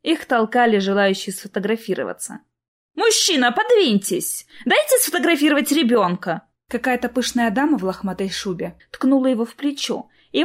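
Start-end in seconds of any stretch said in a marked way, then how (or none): 2.9-6.4 pushy lady. Acted.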